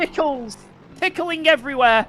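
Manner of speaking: excited yell. Real, not acted. Chaos of crash on track.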